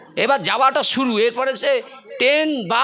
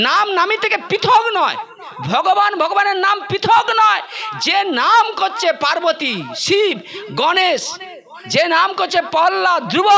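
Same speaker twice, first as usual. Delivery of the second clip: ecstatic preaching; 5 semitones higher than usual. Real, not acted. Preacher exalting the power of the name.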